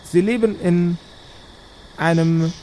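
witch voice chanting a refrain between words; eerie hag skull announcing doom; cackling witch skull. Acted. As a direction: croak the bounty like a hag's broadcast. Talking skull of the hag speaks.

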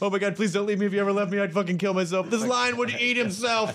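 high-pitched, desperate comic pleading; hammed-up clingy begging, stretching the big words; codependent lion. Lion begging a loved one not to leave, codependent. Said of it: "Codependent Lion".

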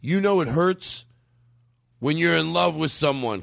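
high, slow self-pitying wail; drunk uncle whine. Retold or imitated. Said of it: "he'd be like".

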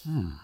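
drawn-out pondering hum; thoughtful hmm. Shown as a demonstration. Voice actor sums up his obsession in a noise, pondering hmm. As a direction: hum as if mulling it over. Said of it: "it is thought-provoking to me".

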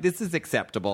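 put-on Southern accent. Guessing a sister's verdict on puppet porn, Southern accent. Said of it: "It's a good Southern accent".

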